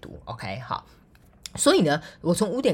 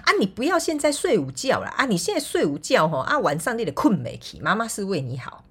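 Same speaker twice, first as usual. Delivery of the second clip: high fussing mom, Taiwanese mixed in; nagging mom lecture; 6 semitones higher than usual. Retold or imitated. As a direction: scold like a caring mother. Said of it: "妈妈都会这样讲的".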